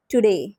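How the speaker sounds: टुडे said as tu-DAY, second syllable punched; stress on second syllable. Shown as a demonstration. Teacher showing students the iamb, stress on day of टुडे. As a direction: lean on the day of टुडे, not the tu. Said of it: "second जो syllable है ना उस पे stress होता है".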